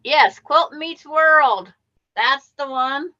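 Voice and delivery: light up as you finally place the show's name; excited recognition. Real, not acted. Quilter recalling a favorite channel to friends, eagerly.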